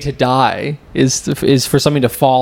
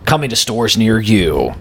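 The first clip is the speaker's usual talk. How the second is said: mock ad announcer. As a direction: sell it like a cheesy TV spot. Mock commercial pitch for Chess Penis.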